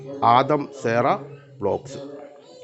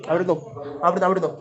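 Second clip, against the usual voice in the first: raised, higher pet-talk voice; 6 semitones higher than usual. Real, not acted. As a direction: promise food to waiting cats, pitched up. Promising cats rice soon. (പൂച്ചയ്ക്ക് ചോറ് വാഗ്ദാനം ചെയ്യുന്ന ഉയർന്ന സ്വരം)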